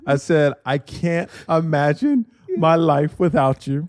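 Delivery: slow, deliberate declaration of love; retold marriage proposal. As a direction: re-enact your proposal, phrase by phrase. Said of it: "Just say what you said".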